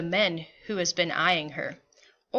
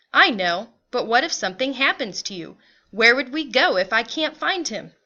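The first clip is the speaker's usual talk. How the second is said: mildly anxious, livelier questioning; lightly voiced worried mother; 3 semitones higher, 4 dB louder than usual. Mother asks father what if they are separated, mildly worried. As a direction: play a touch of worry, punching the opening.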